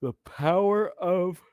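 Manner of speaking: slow, high, drawn-out grand announcement; dramatic. Pretend. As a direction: proclaim it like a movie trailer. Exaggerated dramatic pronouncement.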